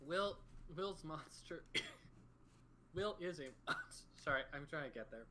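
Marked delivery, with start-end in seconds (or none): 0.1-4.0 coughing through the words, throat still clogged; choking on a drink. Real, not acted. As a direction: push the line out past a cough. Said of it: "T went down the wrong way".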